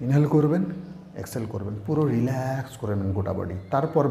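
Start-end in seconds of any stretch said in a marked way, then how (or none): 0.1-0.6 higher, rising as if drawing breath; demonstrated inhale. Shown as a demonstration. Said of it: "কীরকমভাবে?". 1.1-1.7 softer, settling out-breath; demonstrated exhale. Shown as a demonstration. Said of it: "কীরকমভাবে?". 2.1-2.8 "রিল্যাক্স" stretched on its vowel. Shown as a demonstration. Demonstrating how to relax the body.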